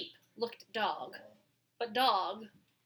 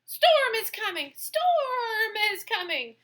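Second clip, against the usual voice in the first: bleating sheep; 12 semitones higher, 6 dB louder than usual. Acted. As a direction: bleat it in panic. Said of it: "the sheep bleated".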